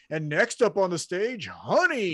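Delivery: hyped club emcee voice; stripper announcer. Retold or imitated. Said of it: "always sounded like a stripper announcer".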